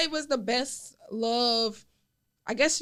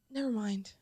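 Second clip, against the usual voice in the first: mumbled never mind; 5 dB quieter than usual. Retold or imitated. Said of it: "And he was like".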